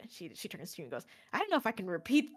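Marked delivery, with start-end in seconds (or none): 1.3-2.3 louder, laughing through the line; giggle, too embarrassed to repeat it; laughing Octavia. Acted. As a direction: companion laughing at the pigeon's rude words.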